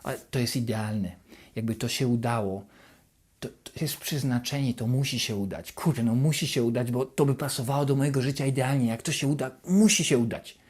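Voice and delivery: a mild nervous spiral, kept low; worrying alone while waiting for results, quietly anxious; anxious looping thoughts. Retold or imitated. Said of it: "zaczynasz się zapętlać w takie negatywne myślenie".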